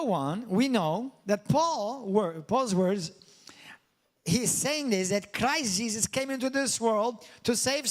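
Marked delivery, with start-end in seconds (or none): 0.5-3.1 whisper. Real, not acted. Preacher drops to hushed aside.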